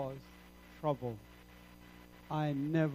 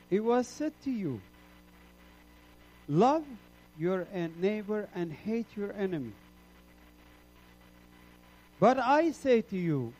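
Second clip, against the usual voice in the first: raised, solemn proclamation; solemn voice of the Lord; 3 semitones higher, 5 dB louder than usual. Retold or imitated. Preacher quoting the Lord to the congregation, raised and solemn. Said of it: "the Lord is saying".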